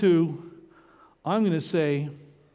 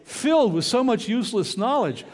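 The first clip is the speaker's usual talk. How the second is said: quoting the wife through a laugh; amused, laughing imitation of the wife; laughing quote; 3 semitones higher than usual. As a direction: tease yourself with a chuckle. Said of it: "Tricia always says".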